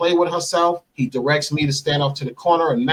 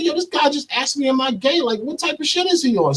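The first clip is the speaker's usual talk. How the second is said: high, agitated retold protest; acting out an affronted rant; indignant complaint; 11 semitones higher than usual. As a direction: complain in disbelief, voice pitched way up. Retelling his angry complaint to woman.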